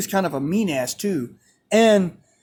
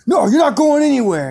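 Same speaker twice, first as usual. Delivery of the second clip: higher, louder, fast mock-coach refusal; angry confrontation; 6 semitones higher, 5 dB louder, faster than usual. Coach stopping a student from leaving, confrontational retold outburst. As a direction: imitate a coach forcefully blocking the way.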